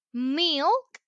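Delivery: milk said as a clear model word; teacher models milk for repeating. Shown as a demonstration. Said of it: "Repeat, milk".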